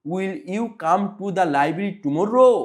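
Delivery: slow question with tomorrow punched at the end; stress on TOMORROW. Shown as a demonstration. Teacher models the question for pupils, slow with stress on tomorrow. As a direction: read slowly, hit tomorrow. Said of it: "tomorrow-টা একটু জোর দিয়ে পড়তে হবে".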